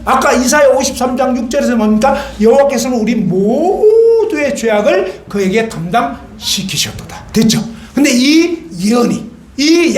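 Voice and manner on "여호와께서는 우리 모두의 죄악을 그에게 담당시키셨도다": slow, measured scripture reading; slow recitation. Acted. Preacher reciting Isaiah again for the congregation, slowly. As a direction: read the verse word by word, slowly.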